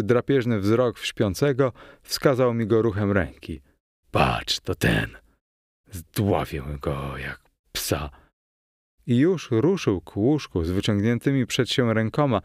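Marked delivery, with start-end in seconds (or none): 4.1-8.1 low, slow menacing character voice; menacing villain. A narrator's reading. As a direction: growl out a murderous threat, low. Villain threatens to strangle sleeper.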